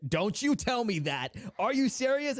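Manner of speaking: can't believe what dad just said; stunned disbelief. Retold or imitated. Fifth grader hearing he's Irish, stunned disbelief.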